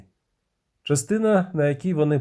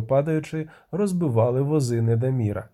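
usual speaking voice

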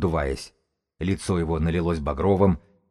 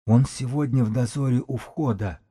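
higher, scratchy husk of a voice; hoarse, rough voice; 5 semitones higher than usual. A narrator's reading. Priest explaining where the dead guard was posted, hoarse and rough. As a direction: rasp it out, pitched up. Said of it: "сиплым шершавым голосом".

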